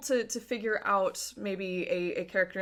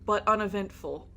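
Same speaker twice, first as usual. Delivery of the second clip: game master scene narration. A narrator's reading. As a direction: set the scene for the players, measured and atmospheric. GM describes the fungal tunnel.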